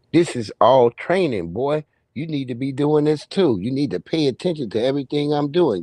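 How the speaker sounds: mild impression of a strict uncle schooling a kid; uncle lecturing. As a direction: lightly lecture the boy as his old uncle. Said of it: "That's how he used to talk to us".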